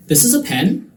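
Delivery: high voice, PEN lifted as a question; questioning intonation. Shown as a demonstration. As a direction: query it with a rise on PEN. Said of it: "some examples that I thought were fun".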